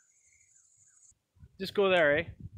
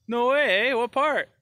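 higher-pitched acted disbelief; pleasantly surprised; 5 semitones higher, 4 dB louder, slower than usual. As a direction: exclaim at the happy coincidence. Acted surprise at shared hometown.

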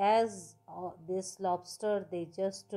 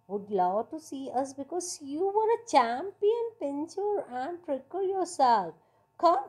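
higher, louder coaxing crowd; inviting creatures; 5 semitones higher, 4 dB louder, faster than usual. Acted. Creatures coaxing Hari to join their pinching team, higher and louder. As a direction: urge him to join the fun.

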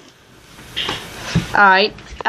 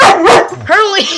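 calling out; 6 semitones higher, 4 dB louder than usual. Real, not acted. Calling the dog.

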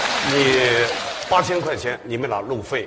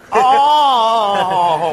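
long, loud, slow ah ah ah; drawn-out high ahs; 10 semitones higher, 8 dB louder, much slower than usual. Acted. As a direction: hold each ah high and loud. Mock singing long vowels.

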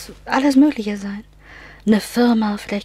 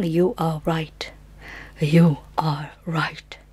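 whisper; 3 semitones lower, slower than usual. Acted. Confirming her guess after the bell.

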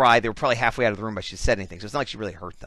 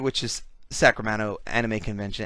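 talking through hiccups; hiccuping. Real, not acted. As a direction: hiccups breaking the words. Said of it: "yes, I'm still hiccuping".

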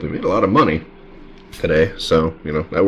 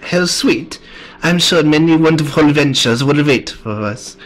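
high French madame, slipping toward German; French accent; 9 semitones higher, 3 dB louder than usual. Acted. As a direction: gush in a badly faked French accent. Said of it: "attempt to do a French accent".

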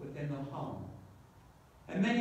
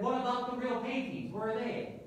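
indignant demand, pitched up; higher-pitched, understated angry protest; mild anger; 5 semitones higher than usual. Acted. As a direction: question them with a touch of outrage. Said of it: "anger in their voice and said".

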